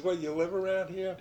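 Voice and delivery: mild quote. Retold or imitated. Charlie asks, retold.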